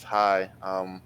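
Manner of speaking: flat, emotionless greeting; deadpan. Acted. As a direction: say it with zero feeling. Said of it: "in that just deadpan, no emotion".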